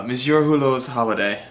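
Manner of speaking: Monsieur Hulot's Holiday in a clumsy French accent; botched French pronunciation of Monsieur Hulot's Holiday; bad French accent. Shown as a demonstration. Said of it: "That was the worst French accent ever".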